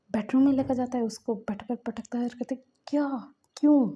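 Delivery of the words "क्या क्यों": angry shout. Acted. Jealous lover confronting Wing.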